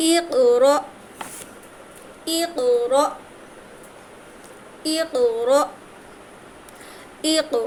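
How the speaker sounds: ইকরা with the ক bounced; qalqalah in words. Shown as a demonstration. Teacher recites examples for students, ক bounced. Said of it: "কলকলা হয়েছে".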